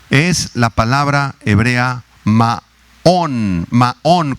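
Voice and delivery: maón, stressed on the A, said slowly; Hebrew word maón. Shown as a demonstration. Pastor teaching the congregation a Hebrew word, slow and clear. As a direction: say maón with the accent on the A. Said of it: "con acento en la A".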